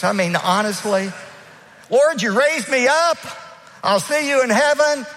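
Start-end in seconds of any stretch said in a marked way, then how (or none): 1.9-5.1 much higher, louder mock pleading Lazarus. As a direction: play a fed-up Lazarus begging to stay in heaven. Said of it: "if you were Lazarus".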